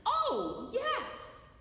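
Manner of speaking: high, loud burst of joy; overjoyed, relieved acceptance; delighted yes. Retold or imitated. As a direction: gush with sudden delight. Gratefully accepting friend's offers.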